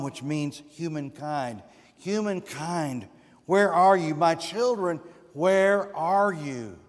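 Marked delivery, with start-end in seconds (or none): 2.0-6.8 God calling out. Acted. God calling his lost children.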